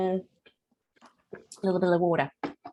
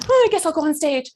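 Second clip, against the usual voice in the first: higher, put-on resigned whine; mock reluctance; 5 semitones higher, 3 dB louder than usual. Coach showing someone pushed on stage, mock reluctant. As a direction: give in as if shoved. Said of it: "You're not being pushed on".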